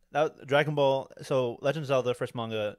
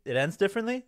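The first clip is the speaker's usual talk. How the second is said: high, louder incredulous question; surprised question; 9 semitones higher, 4 dB louder, faster than usual. Retold or imitated. Hearing about the manga's ending, surprised. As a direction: replay the moment of disbelief, voice jumping up. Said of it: "I'm like".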